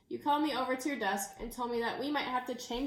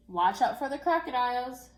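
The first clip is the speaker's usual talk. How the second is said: calling back; 5 dB louder than usual. Acted. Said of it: "you called back".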